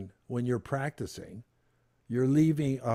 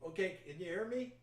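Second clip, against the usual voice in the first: off mic; 6 semitones higher, 10 dB quieter than usual. Real, not acted. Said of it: "Now, you're far away".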